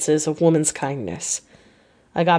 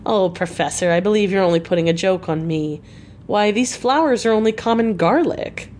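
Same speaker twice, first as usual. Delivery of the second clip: half laughter, half disgust. Acted. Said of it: "with half laughter and half disgust".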